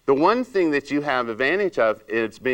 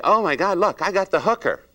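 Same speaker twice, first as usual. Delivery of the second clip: mock shock; 8 semitones higher than usual. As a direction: sneer at her like a gossiping stylist. Stylist mocking client's looks.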